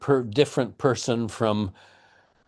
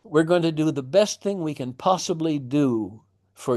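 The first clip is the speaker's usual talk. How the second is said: sympathetic father; 6 semitones higher than usual. Retold or imitated. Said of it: "to basically say".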